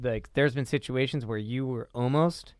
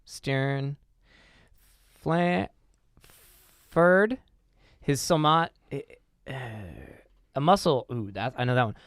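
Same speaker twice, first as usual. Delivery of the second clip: struggling reader, long gaps between words; halting reading; 3 semitones higher than usual. Acted. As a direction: sound it out haltingly word by word. Halting attempt to read aloud.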